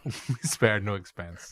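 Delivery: very slow grand title; title read slowly. Shown as a demonstration. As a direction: announce it like a film title, stretched. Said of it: "I wanna call it".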